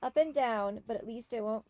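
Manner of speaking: lightly voiced theatrical fortune teller; a hint of a mystic frog witch, grandly pleased; frog sorceress. Frog sorceress telling a couple's love fortune, lightly theatrical.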